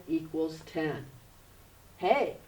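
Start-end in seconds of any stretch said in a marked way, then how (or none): 2.0-2.4 put-on much louder, eager little-boy puppet voice; loud, eager kid puppet; puppet Charlie voice. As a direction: play the class puppet thanking his teacher. Puppet boasts to teacher.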